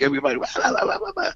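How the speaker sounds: high, rushed mock commotion; imitated yelling and moaning. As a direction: babble like a panicked crowd, without real volume. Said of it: "running and yelling and moaning".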